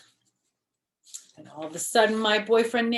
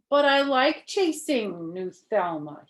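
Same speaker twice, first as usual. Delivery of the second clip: whiny; 4 semitones higher, 4 dB louder than usual. Acted. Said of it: "kinda whiny".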